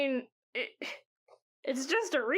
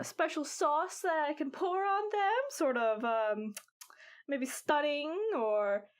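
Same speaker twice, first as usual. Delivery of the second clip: put-on lightly pitched-up old granny; old lady voice. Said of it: "old lady voice".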